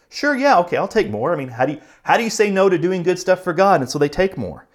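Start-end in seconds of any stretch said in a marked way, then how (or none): 0.1-1.3 much higher and louder, a quick keen agreement; eager yes. Retold or imitated. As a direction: jump at the offer with a happy yes. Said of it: "And so they're like".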